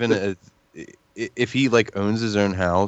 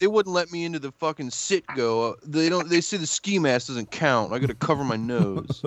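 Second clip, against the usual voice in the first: mocking baby talk; 6 semitones higher than usual. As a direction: whine it like a pouting baby. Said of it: "in a baby voice".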